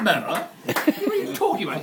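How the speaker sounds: loud laughing through the words. Real, not acted. Teller quoting angry customer while laughing hard. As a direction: speak while cracking up, high.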